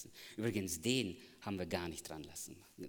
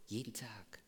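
whisper; 6 dB quieter than usual. Real, not acted. Hushed emphasis.

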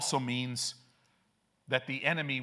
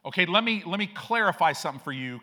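put-on cocky teen to the king; 3 semitones higher, 5 dB louder than usual. Three teenagers lecture King Nebuchadnezzar, brash and casual. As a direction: set the king straight like a teen. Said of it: "In other words".

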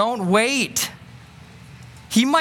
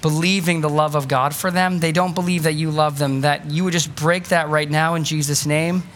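closing prayer; 2 semitones lower than usual. Acted. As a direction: pray over the room sincerely.

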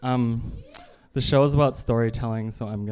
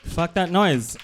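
defiant exclamation; 6 semitones higher, 3 dB louder, slower than usual. Real, not acted. Punchline cry of defiance.

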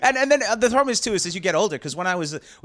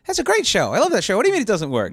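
fake gushing; 8 semitones higher, 3 dB louder than usual. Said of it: "smart thing would be to say".

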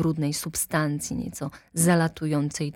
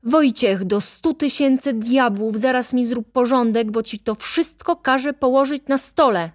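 loud, higher call from down a corridor; 6 semitones higher, 5 dB louder than usual. A narrator's reading. Assistant director yelling at stable hand Wojciech, loud call. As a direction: yell the order from the corridor. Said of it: "z korytarza zawołał".

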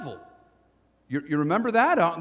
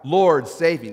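crying out; 8 dB louder than usual. Acted. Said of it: "Peter cried out".

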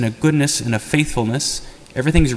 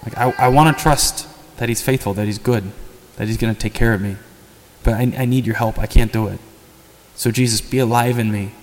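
heartfelt prayer. Shown as a demonstration. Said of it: "We'll take a little time to pray".

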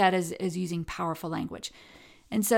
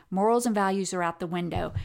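normal talking voice

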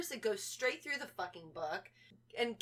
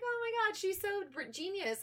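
higher-pitched, gushing fan voice; mock gushing praise; 9 semitones higher than usual. Fans praising a prank couple, mock gushing. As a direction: gush like an impressed fan, mockingly. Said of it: "praise them for it".

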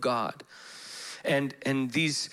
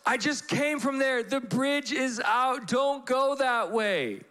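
urgent warning; 12 semitones higher than usual. Retold or imitated. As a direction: plead with him to turn back. Stranger insisting, warning of danger.

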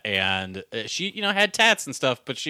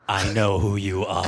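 knowing; 4 semitones lower than usual. Retold or imitated. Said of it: "I say it just like that".

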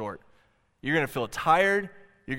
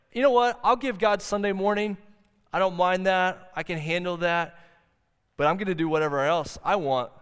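mock careless churchgoer; 4 semitones higher than usual. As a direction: toss it off like someone bargaining with God. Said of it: "an approach to worship that says".

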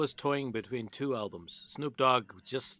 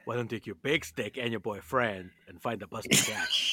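quoting the villain line, laughing; movie quote. Retold or imitated. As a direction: recite the line with a chuckle. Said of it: "It was like this".

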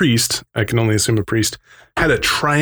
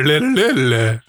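robot noise; 3 semitones higher than usual. Retold or imitated. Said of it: "it's all".

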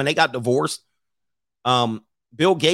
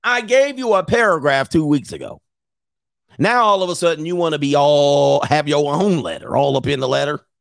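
mock scolding husband; 4 dB louder than usual. Bill voiced scolding.

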